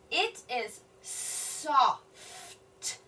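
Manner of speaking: very slow, word by word; slow sounding out. Shown as a demonstration. Teacher decoding a tough word, very slow. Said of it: "That's a tough word".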